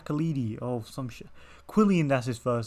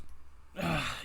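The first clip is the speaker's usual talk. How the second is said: long tired yawn; big yawn; 2 semitones higher, 5 dB quieter than usual. Real, not acted. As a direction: let out a yawn. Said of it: "Sorry for the yawns".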